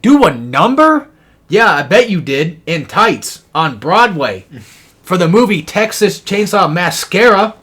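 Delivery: loud, high-pitched mocking retort; Shake mocking. Shake ribbing Willie over his boast, loudly mocking. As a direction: needle him in a big swooping cartoon voice. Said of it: "And then Shake's like".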